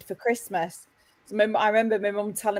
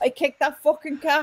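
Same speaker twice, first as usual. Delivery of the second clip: put-on higher-pitched Irish accent; 7 semitones higher than usual. Speaker retells his mum's turkey story in her words, in mum's Irish accent. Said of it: "in my mum's words, my mum was Irish".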